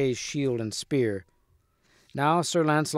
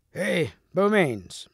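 drawn-out, higher storybook shout; calling out; 5 semitones higher, much slower than usual. A narrator's reading. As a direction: hail him with long, stretched words. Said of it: "shouted Sir Kay".

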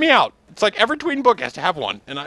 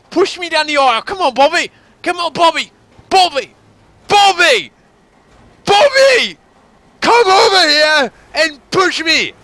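hammed-up yelling for Bobby; 5 semitones higher, slower than usual. Begging Bobby for a push, hammed-up desperate yelling. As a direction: bellow for Bobby like he's drifting away. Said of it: "Not gonna do that voice again".

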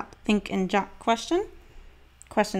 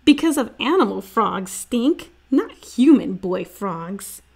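louder, teasing big sister; 4 dB louder than usual. Acted. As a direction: correct him with a grin.

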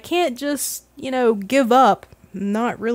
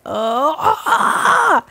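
mock anguished cry; 5 semitones higher, 4 dB louder than usual. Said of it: "I just wanted to scream".

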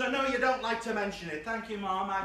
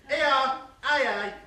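mock posh lady voice; 4 semitones higher, 6 dB louder, much slower than usual. Reading a text in a mock voice.

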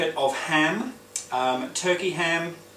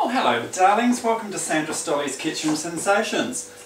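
breathy vintage purr; 4 semitones higher than usual. Acted. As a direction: purr the greeting to the darlings. TV cook persona greets viewers.

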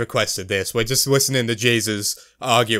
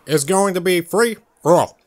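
Barack Obama; 4 semitones higher than usual. Acted. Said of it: "I can't do Obama anymore".

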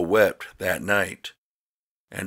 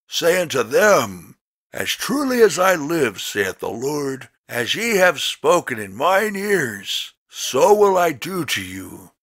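God's solemn rebuke, pitched higher; voice of the Lord; 4 semitones higher than usual. Acted. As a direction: pronounce judgment from above, measured and grave. The Lord speaks in scripture reading.

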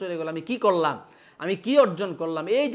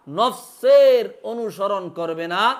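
slow emphatic; 6 dB louder, much slower than usual. Shown as a demonstration. Teacher slows for emphasis.

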